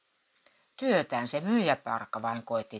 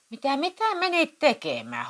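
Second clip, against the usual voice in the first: much higher and louder outraged shout; 12 semitones higher, 7 dB louder than usual. Acted. Husband shouts at wife over the ordered magazines. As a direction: yell at her in disbelief. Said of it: "huusi Matti Vienolle".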